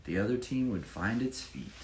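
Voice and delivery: lively rhyming read-aloud; bouncy storybook reading voice; story narration. Acted. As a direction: read it like a picture book for children. Reads rhyming Chiefs picture book.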